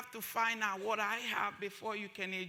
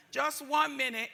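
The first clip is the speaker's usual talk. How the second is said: louder, pointed mock brush-off; mock receptionist; 4 semitones higher, 6 dB louder than usual. Mimicking the receptionist's brush-off, pointed and louder. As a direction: repeat the brush-off with an edge. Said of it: "I knew where that was coming".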